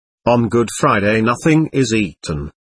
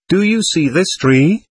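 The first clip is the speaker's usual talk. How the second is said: pointed question; 6 semitones higher than usual. A narrator's reading. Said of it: "asked Father Therapent, after a pause".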